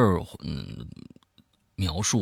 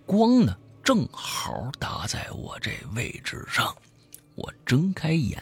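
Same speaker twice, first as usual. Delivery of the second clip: lively storyteller swinging between hushed and emphatic; spoken horror-story narration; dramatic storytelling; 7 semitones higher than usual. A narrator's reading. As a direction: tell a creepy tale with punched key words. Tells a horror story aloud.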